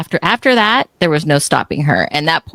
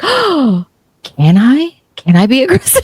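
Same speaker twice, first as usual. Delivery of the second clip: high, wide-eyed imitation of a child; astonished daughter; 8 semitones higher than usual. Daughter asking mom for permission on court, astonished. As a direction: gasp it like a kid amazed she's allowed.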